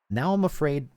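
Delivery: sudden high nervous outburst; scared horror game streamer. Real, not acted. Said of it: "I'm afraid something creepy is gonna happen".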